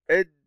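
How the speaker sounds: "إد" closed firmly on the D; doubled dal. Shown as a demonstration. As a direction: stop on the D in "إد", no vowel after. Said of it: "ننطق الدال". («إد» بدال مشددة ساكنة)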